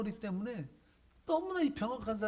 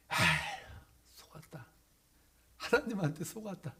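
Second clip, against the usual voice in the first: mild despair. Acted. Man feels deceived by God.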